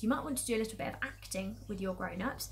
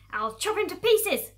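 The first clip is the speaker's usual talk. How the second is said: high, loud, slow menace; shouted threat; 9 semitones higher, 9 dB louder, slower than usual. Acted. Farmer Bunce threatening the fox, shouting. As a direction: shout each word with relish, slowly. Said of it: "shouted Bunce".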